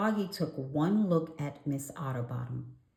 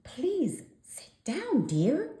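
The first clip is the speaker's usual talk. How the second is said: high, slow prim librarian; 12 semitones higher, slower than usual. A narrator's reading. Miss Otterbottom tells Froggy to sit down, prim high voice. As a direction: gently scold like a prim librarian. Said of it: "said Miss Otterbottom".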